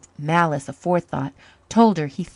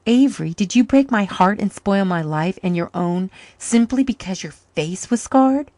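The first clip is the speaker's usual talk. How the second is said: pained reproach; 3 semitones higher, 6 dB louder than usual. Acted. Man reproaching his lost love.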